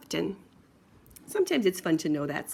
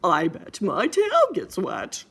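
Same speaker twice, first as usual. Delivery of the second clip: slow daddy pig; 5 dB louder, slower than usual. Acted. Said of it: "He said".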